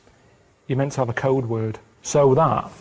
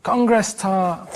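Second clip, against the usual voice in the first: slow code word; 4 semitones higher, much slower than usual. Pretend. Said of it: "Give us your code word".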